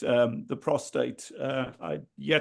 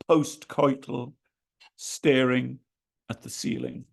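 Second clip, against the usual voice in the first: measured verse with long pauses; poem recital. Acted. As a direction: give each short line room, then let the last drop away. Reads own poem aloud.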